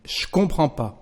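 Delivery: je comprends pas repeated without ne; casual spoken French. Shown as a demonstration. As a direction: drop the ne again.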